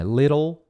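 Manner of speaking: "Little" with a tapped T: LIH-rol; rhyming comparison word. Shown as a demonstration. Teacher comparing similar words, "Little" as LIH-rol. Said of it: "que é parecido".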